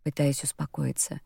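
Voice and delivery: ordinary delivery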